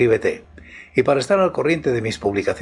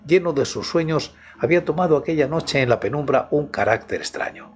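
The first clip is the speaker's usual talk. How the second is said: story narration. Acted. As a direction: set a midnight horror mood. Reads a horror story aloud.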